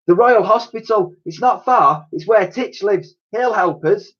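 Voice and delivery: high, eager character voice; helpful Dotty. A narrator's reading. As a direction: pitch it well up, offering a plan.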